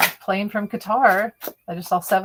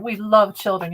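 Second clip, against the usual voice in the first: mock quote. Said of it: "make them look like heroes".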